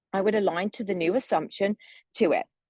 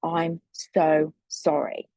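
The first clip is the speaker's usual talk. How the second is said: slow, sincere 'I'm so sorry' looking him in the eye; slow earnest apology to an angry driver; heartfelt apology; 2 semitones lower, much slower than usual. Retold or imitated. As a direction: draw it out gently to calm him. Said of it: "I looked at him in the eye and I just went".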